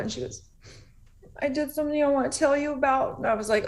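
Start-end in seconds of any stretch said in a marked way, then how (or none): 1.4-3.2 lightly voiced small child, a bit higher; a hint of a sheepish little girl owning up; little daughter confessing. Five-year-old daughter confessing at bedside.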